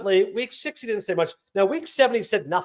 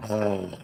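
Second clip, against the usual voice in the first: mock groan; 9 semitones lower, 5 dB quieter than usual. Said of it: "You just go".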